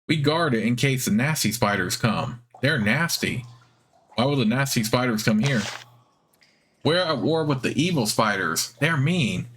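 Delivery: squeaky spider voice. Acted. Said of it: "It has a squeaky, high-pitched voice".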